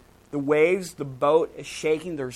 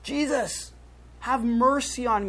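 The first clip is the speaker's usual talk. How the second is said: calling out high, half-shouted plea; mock shout; 8 semitones higher than usual. Bartimaeus calling to Jesus by the road, high pleading call. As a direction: cry out to be heard across a crowd. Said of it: "he starts to shout".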